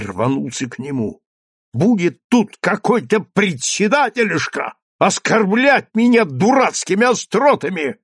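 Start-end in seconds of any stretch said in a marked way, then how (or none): 1.7-8.0 furious outburst. Acted. Teacher lunges at mayor.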